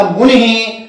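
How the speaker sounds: मुनि said "munihi"; visarga echoing I. Shown as a demonstration. Teacher imitating a dictation word, pronounced "munihi". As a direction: add a short "hi" after मुनि. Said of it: "बोलेंगे ऐसे लेकिन लिखेंगे ऐसे".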